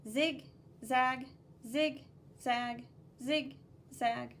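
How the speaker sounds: each zig and zag clipped apart; rhythmic zig zag. Shown as a demonstration. Teacher drilling the zigzag line, rhythmic. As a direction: beat out zig, zag evenly. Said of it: "You need to stop every time".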